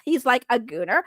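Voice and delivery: hint of a valley girl. Shown as a demonstration. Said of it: "do a Valley Girl voice".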